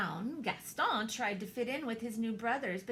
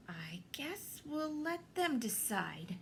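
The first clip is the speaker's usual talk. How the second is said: slow, soft resignation; resigned; 4 semitones higher, 4 dB quieter than usual. Acted. Missus Bulldog replying at last, slow and soft. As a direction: give in gently.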